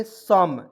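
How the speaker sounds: सम said with a short a sound, not सोम; correct pronunciation. Shown as a demonstration. Teacher corrects सोम to सम for students, clearly modelled. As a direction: model सम as sum, never सोम. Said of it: "इसको सोम नहीं पढ़ेंगे".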